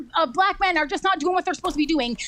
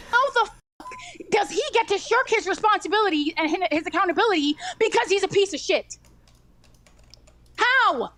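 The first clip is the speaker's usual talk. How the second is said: raised, heated demanding voice; angry yelling; 3 semitones higher than usual. Real, not acted. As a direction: demand answers, furious. Heated argument, raised pitch.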